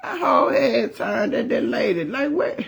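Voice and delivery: laughing while telling. Real, not acted. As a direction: say it through laughter. Laughing retelling.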